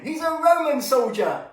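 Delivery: calling out like a keen pupil; imagined children answering. Pretend. Children shouting the answer to the storyteller, eager and high. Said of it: "Yes, I hear you saying".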